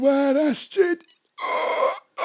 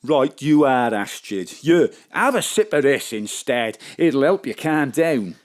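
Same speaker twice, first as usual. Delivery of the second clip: much lower, calm soothing voice; low John; 14 semitones lower than usual. Acted. John offers Astrid a calming drink, low and soothing. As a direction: talk her down gently.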